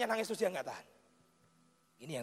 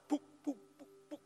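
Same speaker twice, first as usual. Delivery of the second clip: imitated patting; 6 semitones higher, 8 dB quieter than usual. Imitating pats on the baby.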